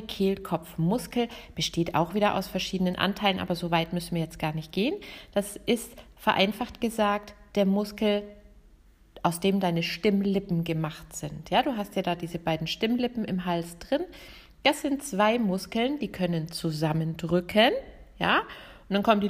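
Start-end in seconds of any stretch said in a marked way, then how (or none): none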